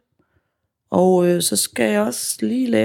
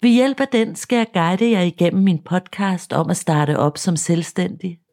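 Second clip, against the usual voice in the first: podcast intro. Acted.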